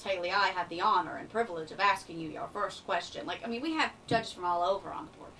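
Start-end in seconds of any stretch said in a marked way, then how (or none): 0.0-3.3 lightly imitating a New York judge's formal accent; a hint of a stiff New Yorker asking the first question. Judge from New York asks her first question, mild New York accent. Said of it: "talked like this".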